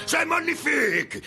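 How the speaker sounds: very high, stretched-out French exclamation; grand artiste flourish. Acted. Painter quotes what artists say, grand artiste flourish. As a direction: savour it slowly like a proud artist.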